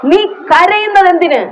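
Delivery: a tender divine question, slowly; voice of God. Pretend. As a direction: ask it like a caring Father. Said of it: "ഒരു വ്യാഖ്യാനം പെട്ടെന്ന് വരികയാണ്".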